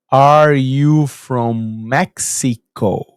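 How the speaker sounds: imitating her painfully slow, loud English; slow, loud questioning. Neighbour questioning a foreigner at her door, slow and loud. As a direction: stretch every word out, loud, as if for someone who can't understand. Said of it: "nesse tom de voz".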